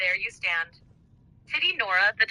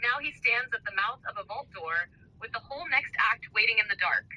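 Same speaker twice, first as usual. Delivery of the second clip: wrestling promo; 7 dB quieter than usual. Acted. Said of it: "wrestling style".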